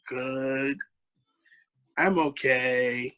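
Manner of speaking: a hint of a shy kid's slow, quiet reply; lightly voicing the boy's timid answer; quiet second grader. Boy answering the teacher on the phone, mildly shy and slow. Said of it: "like, how he talks".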